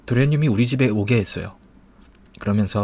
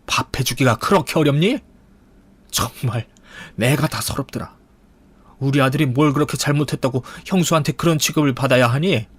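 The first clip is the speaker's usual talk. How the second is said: mildly raised, reproachful mother-in-law voice; aggrieved mother-in-law; 3 semitones higher than usual. Acted. Mother-in-law phoning about her son's meals, aggrieved scolding. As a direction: scold as a wronged mother would.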